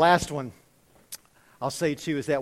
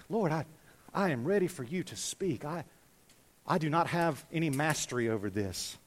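soft, halting, sinking lower; humble prayer; 3 semitones lower, 6 dB quieter than usual. Acted. Preacher models a reader praying to the Lord, humble and soft. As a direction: pray humbly, with pauses, voice dropping away. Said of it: "Okay, so read it humbly".

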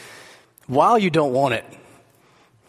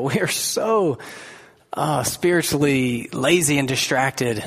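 prayer. Real, not acted. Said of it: "Let's pray together".

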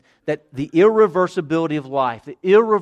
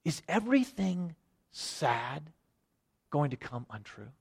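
disturbed Sam; 10 dB quieter than usual. Acted. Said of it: "kinda disturbed a little bit".

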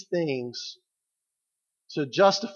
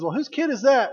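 curious onlooker; 8 semitones higher, 4 dB louder than usual. Retold or imitated. Onlooker asking about a kid.

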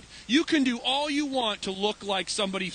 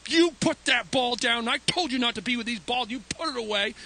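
put-on pastor telling off kids, only half-raised voice; mild retold yelling; 3 semitones higher than usual. Pastor scolds children over a dodgeball, mild mock yell. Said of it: "Their pastor's yelling at them".

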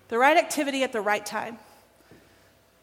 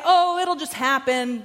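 mock dismissive; 4 dB louder, slower than usual. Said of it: "We're not just gonna say".

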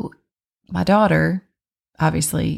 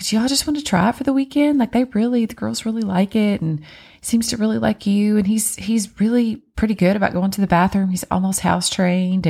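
higher, pleading sales pitch, slowing at the end; lady talking the family into a weekend trial, higher and pleading; imitating the persuasive lady; 5 semitones higher than usual. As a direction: coax them into taking the dog home. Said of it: "she's like".

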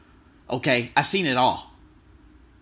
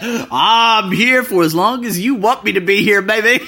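flirty; 4 semitones higher, 5 dB louder, slower than usual. Retold or imitated. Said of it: "I was like".

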